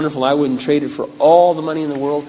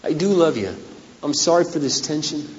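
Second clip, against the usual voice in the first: tender apology; 4 dB quieter than usual. Retold or imitated. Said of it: "And I say".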